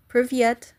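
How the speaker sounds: "Privyet" with a clear crisp T at the end; final T sounded. Shown as a demonstration. Learning a word on stream, careful T in "Privyet". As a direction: land the T of "Privyet" sharply. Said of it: "I have to remember to pronounce the T".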